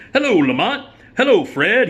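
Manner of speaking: high, loud cheery greeting as Melvin. Retold or imitated. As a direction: sing out the hello like Slappy White's Melvin. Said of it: "he goes".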